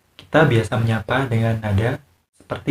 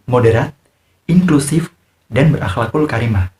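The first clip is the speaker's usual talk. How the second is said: louder news-anchor reading with punched key words; 4 dB louder than usual. Shown as a demonstration. Teacher reading a news script to show emphasis. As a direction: read the bulletin like a presenter. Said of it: "Saya bacakan naskahnya ya".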